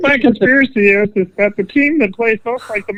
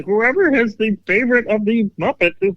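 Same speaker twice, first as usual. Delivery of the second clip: a puppet frog's voice, lightly done; Kermit the Frog voice. Pretend. Asked to do the frog voice, a light Kermit impression. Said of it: "Exactly like him".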